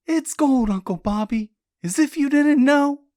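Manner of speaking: high, loud angry accusation; venomous. A narrator's reading. Jessie spits at Uncle Bobby, venomous. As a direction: spit it out with venom. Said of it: "Jessie spat with venom in her voice".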